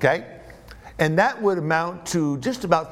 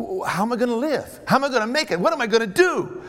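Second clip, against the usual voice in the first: higher, fretful run of questions; mildly panicked steward; 5 semitones higher, faster than usual. Acted. Fired steward asking how he will live, mock panic. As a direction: let the worry climb in pitch.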